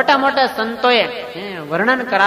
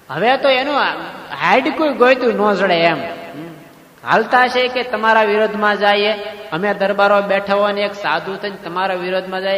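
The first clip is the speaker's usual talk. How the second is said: boastful, raised voice. Acted. Sura Khachar boasts to Maharaj.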